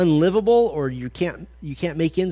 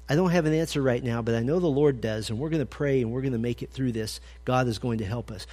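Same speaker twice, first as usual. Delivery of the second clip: calm reassurance; 3 semitones lower, 3 dB quieter than usual. Retold or imitated. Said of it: "But you're the guy who says".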